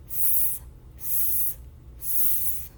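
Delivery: s as three separate voiceless hisses; letter sound. Shown as a demonstration. Teacher gives the students' answer, letter sound. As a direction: hold s as sss, three times with pauses. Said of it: "say the sound three times".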